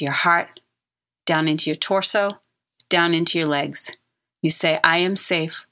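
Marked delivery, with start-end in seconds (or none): 4.8-5.7 like you mean it. Shown as a demonstration. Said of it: "like you mean it".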